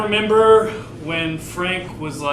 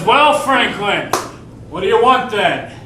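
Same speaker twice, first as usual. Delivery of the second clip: a fed-up father groaning his son's name; groaning dad; 6 semitones higher, 7 dB louder than usual. Acted. Dad groans at Frank as he walks in. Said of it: "He says, he says".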